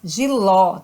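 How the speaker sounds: "Giló" with an open final ó; stressed open last vowel in "Giló". Shown as a demonstration. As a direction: land on a wide-open ó in "Giló". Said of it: "o som aberto".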